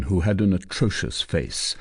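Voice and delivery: usual speaking voice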